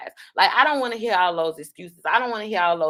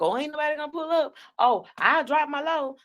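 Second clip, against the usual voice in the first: higher, fast sing-song mockery of her boast; mocking her; 6 semitones higher than usual. Host mocking a rival's old boast, high and fast. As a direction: mimic her bragging in a higher, quick voice. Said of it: "You always being like".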